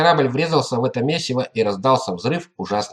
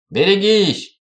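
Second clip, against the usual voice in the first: sudden high yell; shouting a warning; 7 semitones higher, 4 dB louder, slower than usual. Acted. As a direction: cry out in alarm. Crew member warns of collision.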